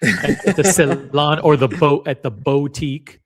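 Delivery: Celan as a drawn-out "seh-LAHN", boutique as "boh-TEEK"; playful pronunciation. Pretend. Host trying it for fun, Celan said slowly as "seh-LAHN". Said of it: "just for fun".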